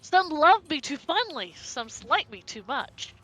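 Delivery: slow, measured riddle recital; riddle reading. Acted. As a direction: read it like an old riddle. Reads riddle note aloud.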